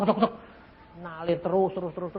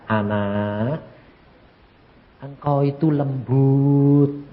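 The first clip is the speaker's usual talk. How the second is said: gentle voice of God; 2 semitones lower, slower than usual. Retold or imitated. God gently comforting the faithful wife, slow and tender. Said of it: "Tapi kalau sama istri saya, ndak".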